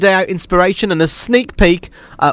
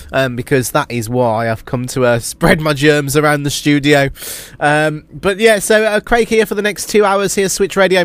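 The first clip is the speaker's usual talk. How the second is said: usual speaking voice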